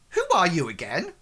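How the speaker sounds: quick, wary merchant question. Acted. Merchant stepping back from the stranger, wary and quick. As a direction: ask it fast and guarded as the merchant. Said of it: "takes a cautionary step back".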